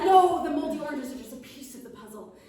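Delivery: high, loud, grumbling gnome. Acted. Gnome confesses to the witch he hates serving steaks, high and loud. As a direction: complain loudly like a tiny food-hating gnome. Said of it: "He says".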